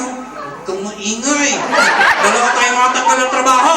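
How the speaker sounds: lion scolding, building to a loud punchline; voiced lion in a comic story; talking lion. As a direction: start at normal level, end in a loud mock complaint. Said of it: "sabi ng lion".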